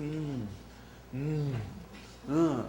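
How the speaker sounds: short mock moans with pauses; imitated moaning. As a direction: imitate absent-minded moans, one at a time. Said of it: "você tá gemendo". (gemidos imitados)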